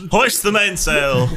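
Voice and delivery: slow, shouted ship's order; captain's order. Acted. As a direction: call it across the deck. Mock ship captain shouting.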